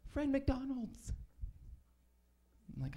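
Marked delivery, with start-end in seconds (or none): 0.1-1.1 high, slow announcer voice for a TV ad. Retold or imitated. Comic recalling a TV ad, in a slow high ad voice. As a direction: sell it like a cheesy commercial. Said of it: "they're like".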